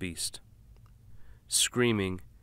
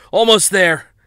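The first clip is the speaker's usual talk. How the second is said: raised, strained husband's voice; tense husband; 11 semitones higher, 17 dB louder than usual. Acted. Driver answering his wife in the back, strained. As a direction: hold it together while driving.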